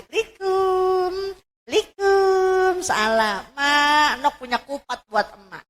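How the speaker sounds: high, drawn-out sing-song greeting; voicing the daughter again. Daughter greeting her mother again, high sing-song. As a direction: call likum at the door like a pleading child.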